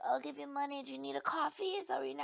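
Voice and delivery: mock-kindly, high voice; pitying stranger. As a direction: imitate a concerned stranger offering charity. Voicing pitying strangers in line.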